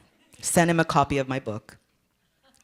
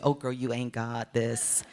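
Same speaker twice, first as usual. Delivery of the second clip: deflated. Retold or imitated.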